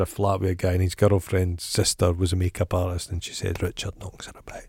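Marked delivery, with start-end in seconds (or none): 3.1-4.6 gossipy whisper. Real, not acted. Gossiping about a celebrity.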